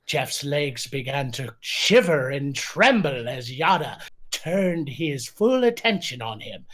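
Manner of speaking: mock passion read in a lightly put-on voice; Poe voice. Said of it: "Read in the voice of Poe".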